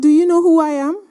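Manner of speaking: fast, high and loud indignation; rapid loud indignant challenge; indignant retort. Retold or imitated. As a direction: snap back, offended. Annoyed president confronts speaker.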